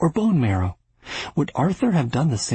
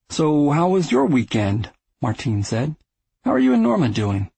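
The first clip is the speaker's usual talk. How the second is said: Martine probing; 3 semitones higher than usual. Acted. Brother probing with small talk.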